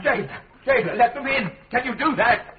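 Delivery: high, excited calling to the jailer; a high, laughing call to let the family in; eager call. Acted. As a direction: call him over, laughing with hope.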